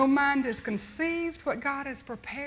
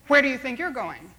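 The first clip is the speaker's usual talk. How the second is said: stern challenge; 7 dB louder than usual. Acted. Doorman stops the boy.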